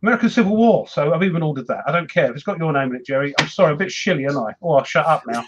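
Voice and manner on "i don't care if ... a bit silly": slushy sh for s. Real, not acted. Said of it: "I'm sounding a bit funny".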